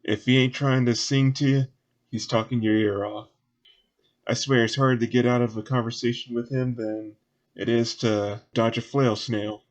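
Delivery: folksy grumble, lightly Southern; lightly voiced local. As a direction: complain about the windbag in a light Southern voice. Game master voices Southern character.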